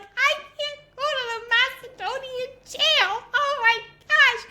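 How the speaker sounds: hammed-up high, loud wail; retold panic. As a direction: act out dread of being jailed. Teller acts fear of jail.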